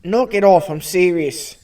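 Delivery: put-on English-Australian scolding; English-Australian mixture. Australian character scolds co-hosts, mock-stern English-Australian accent. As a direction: tell them off in a muddled English-Australian accent. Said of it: "The English Australian".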